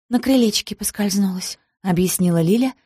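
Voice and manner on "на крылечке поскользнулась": words gurgled through blood; choking on blood. Acted. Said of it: "захлёбываясь кровью".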